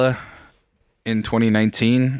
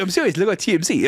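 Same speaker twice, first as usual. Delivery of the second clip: lightly voiced babyish coworker; imitated speech impediment; 4 semitones higher, faster than usual. Coworker insisting he is serious, lightly imitated impediment. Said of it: "Why do you sound like Jimmy".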